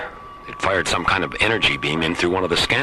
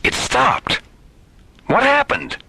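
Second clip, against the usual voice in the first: alarmed shout. Acted. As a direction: cry out as the lightning strikes. Lightning attack on the bridge.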